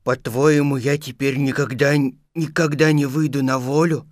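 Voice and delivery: mildly pitiful bear question; plaintive. Acted. Stuck Pooh fearing no escape, plaintively. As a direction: ask with a touch of self-pity. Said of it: "спросил Пух жалобно".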